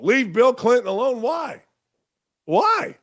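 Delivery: a light send-up of a shrill defender; mock whiny liberal.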